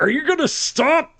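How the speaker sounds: high, put-upon squeaky voice; pestered worker. Retold or imitated. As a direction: ask like a tiny fed-up character. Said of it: "He's like".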